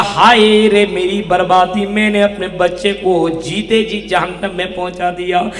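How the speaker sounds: chant-like lament of regret; lightly acted father lamenting his ruin; imitated anguished wail. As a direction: draw out the cry, then let it sink. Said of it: "इस आह को सुनने के बाद".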